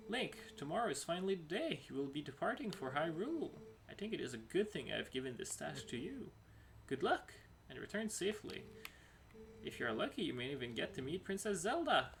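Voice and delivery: a hint of a proud guardian; lightly voiced mentor. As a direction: encourage the young hero warmly. Reads mentor's farewell lines.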